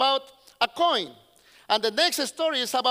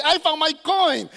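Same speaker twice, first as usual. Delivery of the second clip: higher, celebratory calling out; jubilant announcing; 4 semitones higher, 4 dB louder than usual. Acted. Woman telling invited friends about her coin, jubilant. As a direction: share the good news with the crowd.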